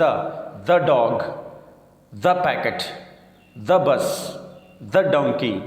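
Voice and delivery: the as "dha" before dog, packet, bus, donkey; thuh before consonants. Shown as a demonstration. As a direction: open short vowel in the. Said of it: "the پڑھنا ہے".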